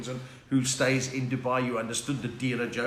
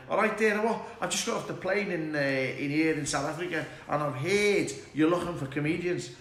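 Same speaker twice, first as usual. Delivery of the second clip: lightly hammed Scouse patter; mock Scouse job-hunter; put-on Liverpool accent. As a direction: pass yourself off as a Liverpudlian. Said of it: "I was talking like that".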